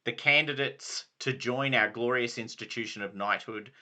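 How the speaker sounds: lightly voiced knightly lord; Sir Brastius. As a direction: proclaim like a ceremonial knight. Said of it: "this is Sir Brastius saying this".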